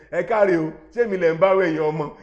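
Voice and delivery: loud mock-indignant grandma quote; indignant retort, imitated. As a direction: act out her loud scolding reply. Retells grandma's retort in meeting.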